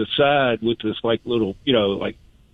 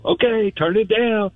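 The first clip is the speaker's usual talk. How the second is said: mock yell; 11 semitones higher, slower than usual. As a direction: call out slowly like a worker across the field. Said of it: "the other guy would yell".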